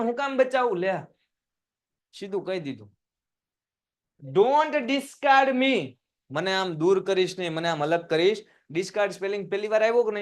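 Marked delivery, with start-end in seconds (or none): 4.3-6.0 very slow, higher plea; slow, raised plea; slow pleading reading. Shown as a demonstration. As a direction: draw out a begging don't. Reads Devyani's plea aloud.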